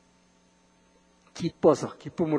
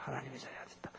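"하나님의 자리에 앉았다" murmured far softer and lower; hushed echo; 4 semitones lower, 26 dB quieter, much faster than usual. Acted. Preacher quietly echoing Satan's boast to himself, almost whispered.

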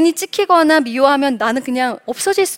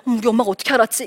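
very fast, flustered aside; flustered child; much faster than usual. Acted. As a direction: imitate a child caught out, rushing the words. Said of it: "애가 이제 당황하면서". (당황한 아이의 빠른 혼잣말)

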